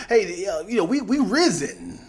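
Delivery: lightly hammed-up American parody; stereotype American. Showing what Americans do, mock slang voice. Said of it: "that's what the Americans do".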